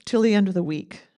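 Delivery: put-on light Scottish accent reading a begging poem. Eulogist reading dad's poem aloud, light Scottish accent. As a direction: lilt the lines in a gentle Scottish accent. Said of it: "Great Scottish accent".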